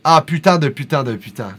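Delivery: lightly voiced Parisian cursing; a hint of a Paris accent; France French swearing. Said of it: "That's more French France".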